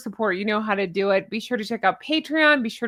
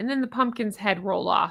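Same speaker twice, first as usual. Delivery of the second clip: ordinary delivery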